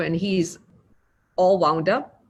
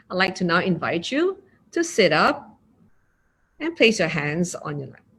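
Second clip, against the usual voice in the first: gentle invitation; 2 semitones lower than usual. Shown as a demonstration. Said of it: "As opposed to".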